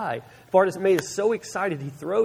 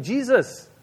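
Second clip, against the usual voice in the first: mild mock yell, pitched up; half-shouted call, drawn out at the end; retold yell; 3 semitones higher, slower than usual. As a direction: imitate calling over a crowd without full volume. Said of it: "yelling above the crowd".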